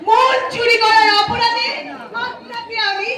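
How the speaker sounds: high, drawn-out playful police announcement; mock-official arrest. Police officer teasing a sweetheart with a charge, mock-official. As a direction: announce a pretend arrest, stretching the ending.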